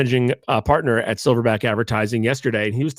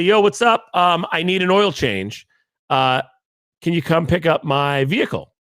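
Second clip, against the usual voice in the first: lightly voiced casual bro; a hint of a laid-back dude asking for a pickup; mild mock bro with a higher "yo"; 4 semitones higher than usual. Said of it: "He doesn't talk like that".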